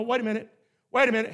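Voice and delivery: ordinary talk, nothing marked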